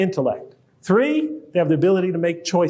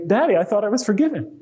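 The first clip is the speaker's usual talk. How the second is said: daughter's complaint; 3 semitones higher, faster than usual. Retold or imitated. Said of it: "they'd say to me".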